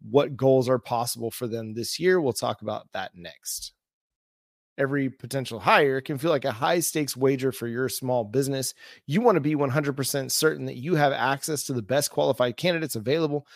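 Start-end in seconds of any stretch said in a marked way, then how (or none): 4.8-13.5 smooth sponsor read. Acted. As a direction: read it like a radio ad. Host reads sponsor ad.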